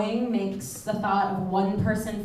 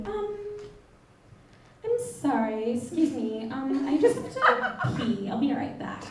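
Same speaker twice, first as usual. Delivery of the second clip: polite excuse; 6 dB quieter than usual. Retold or imitated. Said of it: "and very politely I say".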